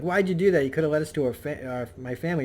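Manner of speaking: mildly acted outrage, easing off toward the end; pissed off. Kid confronting the one who tricked him, mildly pissed off. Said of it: "Franklin's pissed off".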